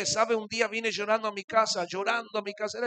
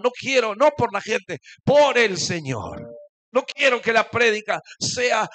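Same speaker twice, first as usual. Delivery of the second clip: earnest prayer; 4 semitones higher, 6 dB louder than usual. Retold or imitated.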